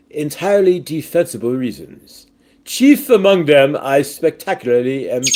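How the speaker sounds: reads the chat message in a lightly put-on proper English accent; playful mock posh English reading. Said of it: "sounds like the right accent for that".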